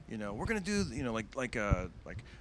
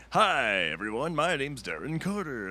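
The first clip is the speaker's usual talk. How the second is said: mock nervous; 2 semitones higher, 5 dB louder, slower than usual. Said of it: "act all nervous".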